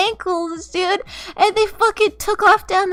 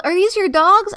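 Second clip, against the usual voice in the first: retold yell; 3 semitones higher, 6 dB louder than usual. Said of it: "somebody yelled".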